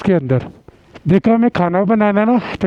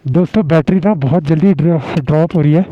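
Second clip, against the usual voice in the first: short of breath at altitude; 2 semitones lower than usual. Real, not acted. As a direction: talk while catching your breath. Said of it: "सांस बहुत ज़्यादा फूल रही है".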